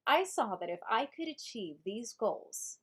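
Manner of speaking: slow reading with inflections on different words; acted inflections. Shown as a demonstration. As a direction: play with the emphasis in an audiobook voice. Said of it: "trying different acting things with it".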